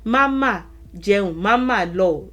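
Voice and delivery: MAMA stressed before each verb; insistent weight on MAMA; emphatic. Shown as a demonstration. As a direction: lean on "Mama", then drop onto the verb. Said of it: "ma there would be for emphasis".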